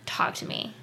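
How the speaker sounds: soft whisper, breath only. Retold or imitated. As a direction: whisper it gently like a confidante. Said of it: "they're like".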